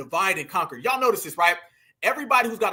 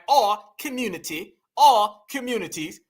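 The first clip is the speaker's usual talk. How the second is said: mock British-African accent on our community, leaning on the R in our; lightly imitating her British-African R's; hint of a British-African accent, said to mock. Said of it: "you notice her R's are just like".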